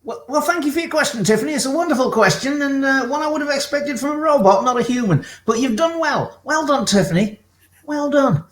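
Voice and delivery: a polite machine praising a caller; lightly voiced robot.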